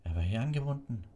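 enraged. A narrator's reading. Executioner finding the prisoner gone, enraged. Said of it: "sagte der Henker wutentbrannt".

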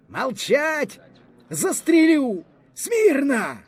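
high, panicky officer's orders; hoarse, frightened shout. A narrator's reading. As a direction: shout scared commands, pitched far up. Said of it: "хриплим, переляканим голосом закричав". (хрипкий переляканий крик)

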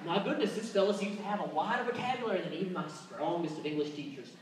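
hammed-up, impressed, formal Northern European accent; posh European admirer. Northern European fans marvel at his vocabulary in a hammed-up accent. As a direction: play an amazed European fan. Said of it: "they are just like".

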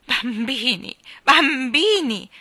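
loud, high, drawn-out call; calling to order. A narrator's reading. Despairing mother to squabbling children, calling to order.

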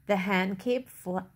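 stumbling read, cut off mid-word; tongue-tied. Real, not acted. Reader stumbles on the picture book, tongue-tied. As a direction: trip on the word and break off. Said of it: "why am I getting tongue-tied".

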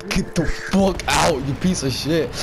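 mock exasperated order. Acting as driver's angry teammate.

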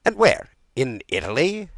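high, loud eager questions; keen royal questioning. A narrator's reading. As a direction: ask urgently, pitch leaping up. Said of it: "asked the king eagerly".

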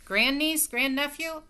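high, loud pronouncement; announcing. Acted. Great-aunt announcing to relatives, high and loud. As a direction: declare it grandly. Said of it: "Great Aunt Myra announced".

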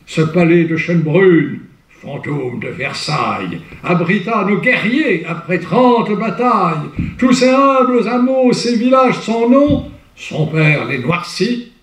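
grand theatrical verse reading; declaimed verse. Shown as a demonstration. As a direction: declaim the poem with rising fervour. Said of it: "Vous voyez, c'est enlevé".

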